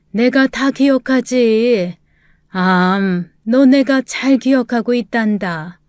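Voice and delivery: remember a beloved pupil with effort; frail old teacher. Acted.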